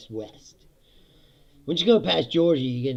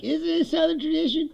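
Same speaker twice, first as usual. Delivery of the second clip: mocking question; 10 semitones higher, 7 dB louder than usual.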